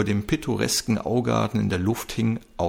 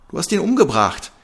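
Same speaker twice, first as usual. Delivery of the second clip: much higher, louder repeated scream; 9 semitones higher, 5 dB louder than usual. A narrator's reading. Seela repeating the accusation, screaming. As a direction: scream it again, desperate. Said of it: "wiederholte Seela schreiend".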